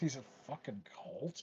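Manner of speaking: barely audible whispered grumble under the breath. Voicing a departing customer seeing the team photo: muttered under his breath. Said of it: "under his breath".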